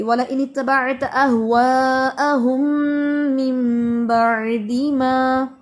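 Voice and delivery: slow, drawn-out Quran recitation; tajweed recitation. Shown as a demonstration. Teacher showing the right place to stop, slow recitation. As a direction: recite up to मिन बअदि मा slowly. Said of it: "आप यहाँ तक पढ़ लेती".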